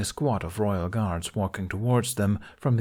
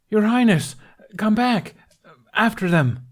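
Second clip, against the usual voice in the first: shouting after him; 12 semitones higher, 7 dB louder than usual. Acted. Guards shouting in chase.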